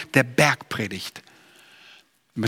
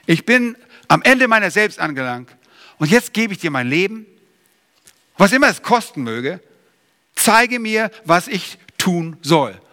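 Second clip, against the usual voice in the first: earnest surrender; 3 semitones higher than usual. Retold or imitated. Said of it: "Wir müssen dahin kommen".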